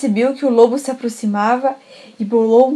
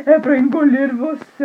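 louder, snapping threat; menacing wolf; 3 semitones higher, 5 dB louder than usual. Acted. Wolf revealing himself to the girl, loud threat. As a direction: bite the words out. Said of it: "ela falou assim".

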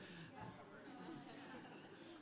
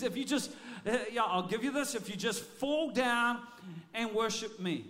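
tempting devil. Retold or imitated. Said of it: "He's trying this right now on Jesus".

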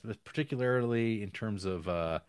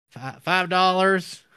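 timid customer; 9 semitones higher, 11 dB louder, slower than usual. Retold or imitated. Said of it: "And they go".

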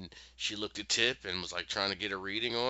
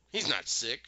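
slightly raised, imitated snappy correction; 5 semitones higher, 3 dB louder than usual. Girl correcting Jack about her father, mild snap. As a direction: snap it a little, mildly. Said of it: "She, like, snapped a little bit".

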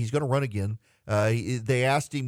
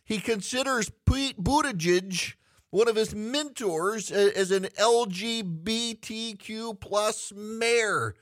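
game show winner reveal; 9 semitones higher than usual. Acted. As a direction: belt it like the big prize reveal.

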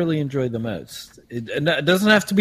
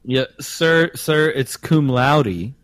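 playing Frank, a good ol' boy from Augusta; Augusta Southern accent; 3 semitones higher than usual. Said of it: "your Southern accent".

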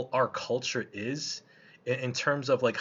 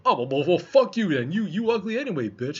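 higher, louder mock catcaller turning nasty; hostile catcaller; 6 semitones higher, 6 dB louder than usual. Construction workers insulting a woman who ignores them, hostile and loud. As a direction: sneer it like a rejected catcaller. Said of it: "they start turning hostile".

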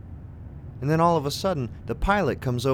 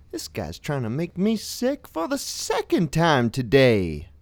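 joking jab; 5 semitones higher, slower than usual. Retold or imitated. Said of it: "I'm joking".

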